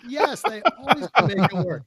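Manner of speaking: loud, high, rousing affirmation; exaggerated, shouted eagerness; enthusiastic. Shown as a demonstration. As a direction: belt it out to show them real enthusiasm. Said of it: "You guys sound enthusiastic".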